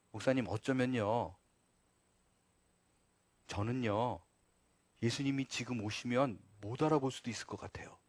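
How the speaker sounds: low, very soft quote of a hesitant churchgoer; hushed confession. Retold or imitated. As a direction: confide it quietly, trailing into a near whisper. Congregant confiding a doubt to pastor.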